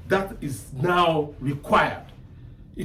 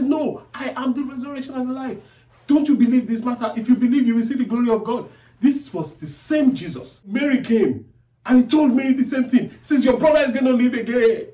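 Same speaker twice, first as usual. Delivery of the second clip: higher, louder preacher's retelling; impassioned preaching; 7 semitones higher, 5 dB louder than usual. Acted. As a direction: preach the quoted words with rising force. Preaches the dialogue at full force.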